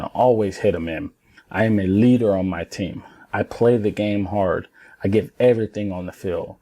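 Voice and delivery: firm, deliberate self-affirmations; strong affirmation. Shown as a demonstration. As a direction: say each one like you mean it. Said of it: "And the way I'm saying it, that means a lot".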